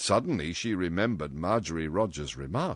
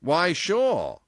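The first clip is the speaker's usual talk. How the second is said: loud, higher, ready agreement; solicitous; 10 semitones higher, 7 dB louder than usual. A narrator's reading. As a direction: agree at once with concern. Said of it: "he said solicitously".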